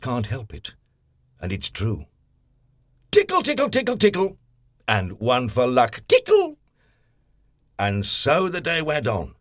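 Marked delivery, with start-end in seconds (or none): 3.1-4.4 high, squeaky tickle tickle; playful tickle. A narrator's reading. Mister Tickle tickling the postman, high and playful. Tickling Little Miss Neat. 6.1-6.6 very high, loud final tickle; extra-high tickle. A narrator's reading. One more tickle for Little Miss Neat, very high.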